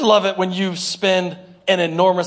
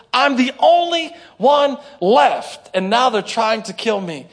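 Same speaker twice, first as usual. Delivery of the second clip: Elijah's lament; 4 semitones higher than usual. Acted. Preacher voicing Elijah's complaint.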